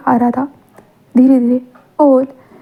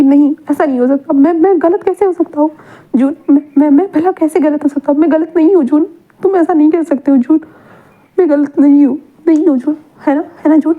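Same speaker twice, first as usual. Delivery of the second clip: higher, pleading disbelief with rising panic; a lightly voiced frantic father clinging to hope; desperate denial; 3 semitones higher than usual. Wang refuses to accept being wrong. (हताश होकर इनकार करते हुए, ऊँची आवाज़ में)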